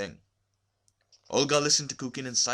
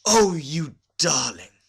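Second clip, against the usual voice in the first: loud, high, slow gushing exclamation; delighted gush; 7 semitones higher, 12 dB louder, slower than usual. A narrator's reading. Women visitors grabbing Olga's hand, delighted gush. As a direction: gush over her with delight. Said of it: "in a transport of delight".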